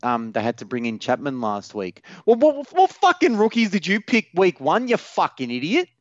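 rip into him, furious; swearing tirade. Real, not acted. Ranting at commenter's question.

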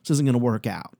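high squeaky voice of a startled prospect; high mock voice of a flustered prospect; imitating a prospect. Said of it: "a lot of times they're like".

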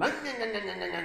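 chainsaw noise. Retold or imitated. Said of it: "The chainsaw's going".

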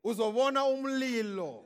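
Zulu prophecy. Retold or imitated. Quoting in Zulu.

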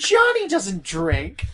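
put-on slow, drawn-out odd accent; slow, strange cult-film delivery; Tommy Wiseau voice. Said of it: "Tommy Wiseau".

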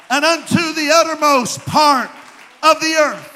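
loud scripture reading; preaching. Acted. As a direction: preach it out with full force. Reads Acts with full force.

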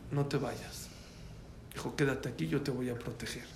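softly voiced protective plea; tender reassurance. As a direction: gently imitate a quiet offer of refuge. Doctor acted, offering protection.

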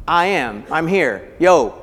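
casual informal. Shown as a demonstration. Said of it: "ego alone is the informal".

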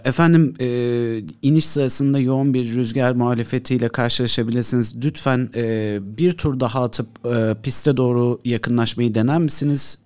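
lightly voiced radio controller; air traffic controller. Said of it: "Ben kuledeyim".

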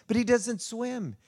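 high, slow retold disbelief; incredulous parents, acted. Parents insisting to the fisherman, acted incredulity. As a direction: protest in amazement, pitched well up.

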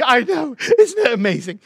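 high-pitched imitation of a thrilled woman; delighted. Voices Heidi delighted amid the crying.

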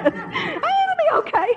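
high, slow mock of the husband through laughter; mocking husband, laughing. Wife mimics her husband's reassurance about the spoiled roast, high and laughing. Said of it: "but he always says".

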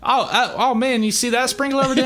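high, put-on distraction ploy; high-pitched mock innocence; deceiving bluffer. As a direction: feign surprise to make someone look away. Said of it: "you're like".

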